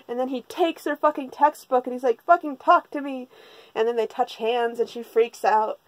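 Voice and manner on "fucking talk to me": louder, higher mock demand; exasperated demand. Boy who took her textbook demands she talk, mock exasperation. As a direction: push it out, demanding attention.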